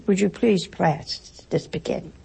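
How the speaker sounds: mock polite English. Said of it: "Some nationalities would say, maybe the English".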